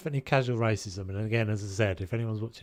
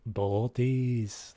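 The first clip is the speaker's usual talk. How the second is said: "Bodies" in a put-on Scottish accent. Shown as a demonstration. Gamer savouring a favourite word, mock Scottish accent. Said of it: "I quite like that word".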